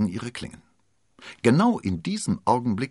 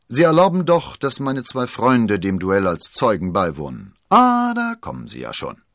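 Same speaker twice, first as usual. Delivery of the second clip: wounded musketeer; 6 semitones higher, 9 dB louder than usual. Acted. Wounded musketeer addresses D'Artagnan.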